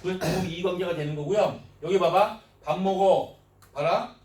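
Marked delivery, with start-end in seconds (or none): 2.6-3.3 밥 먹어 as a firm statement, ending down; 밥 먹어, louder, pitch dropping at the end; falling intonation. Shown as a demonstration. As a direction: say 밥 먹어 loudly with a falling tune. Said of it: "이런 억양에 따라서".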